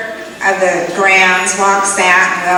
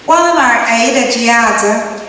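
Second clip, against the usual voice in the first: Creek woman; 4 semitones higher than usual. Retold or imitated. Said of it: "Creek woman number one says".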